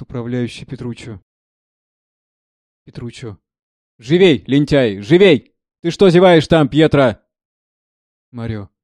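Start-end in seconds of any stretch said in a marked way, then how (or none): 4.0-7.2 loud, hurried yelling at a lazy servant; scolding shout. Acted. Steward shouts at the lazy servant Pietro, loud scolding. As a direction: bark at him to get moving.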